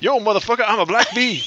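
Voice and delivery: spokesperson voice. Acted. Playing a mock ad spokesperson.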